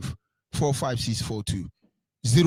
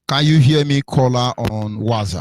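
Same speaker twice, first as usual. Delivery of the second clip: to someone hard of hearing; 5 dB louder than usual. Real, not acted. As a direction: raise your voice to reach a bad line. Caller can't be heard clearly.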